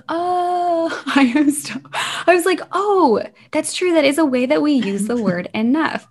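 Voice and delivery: cracking up as it dawns on you; laughing realization. Real, not acted. Kid's funny take on enough.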